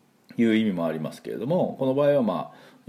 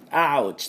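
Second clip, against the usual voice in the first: ouch; 6 semitones higher, slower than usual. Retold or imitated. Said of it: "ぶつかったりした時も".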